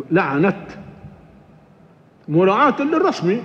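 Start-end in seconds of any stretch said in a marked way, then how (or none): 0.1-0.6 لعنت ending in a clear t, not h; stop on t. Shown as a demonstration. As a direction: pause on لعنت with the t sounded. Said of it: "يقف عليها تاء". (الوقف على لعنت بالتاء)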